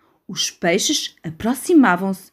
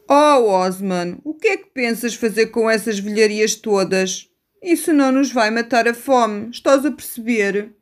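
exasperated seagull. Acted. Gulls scold Osman.

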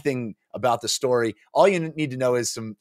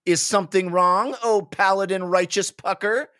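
mock-formal player; 9 semitones higher than usual. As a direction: ham up fantasy speech. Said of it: "cried Stables".

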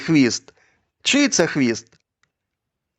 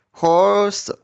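robot voice; 3 semitones higher than usual. Shown as a demonstration. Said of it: "як робот".

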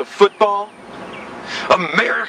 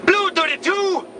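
quarterback calling cadence; 7 semitones higher than usual. Acted. Quarterback calling play at snap.

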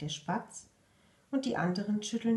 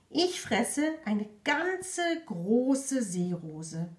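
boastful frog; 3 semitones higher, much slower than usual. Acted.

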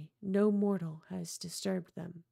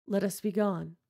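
calm, level echo; Montresor's cold reply. Acted. Montresor mocking Fortunato's plea back at him, cold and level. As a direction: repeat his words back coldly. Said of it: "I said".

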